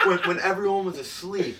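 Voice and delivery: words squeezed out through laughter; can't stop cracking up while telling it; laughing. Real, not acted. Cracking up while telling his friend the story, laughing.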